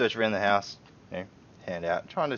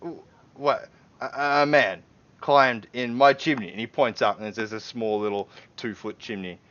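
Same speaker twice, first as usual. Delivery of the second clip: higher, louder disbelieving outburst; can't believe what he's hearing; incredulous homeowner; 4 semitones higher, 7 dB louder than usual. Acted. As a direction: homeowner doubting the uniformed strangers.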